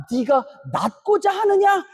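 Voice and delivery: "하느냐" shouted high and slow; shouted question. Shown as a demonstration. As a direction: call the question out like Jesus calling to the sick man. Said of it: "뭐라고 물어보시냐?". ("하느냐"를 높게 외치며 천천히)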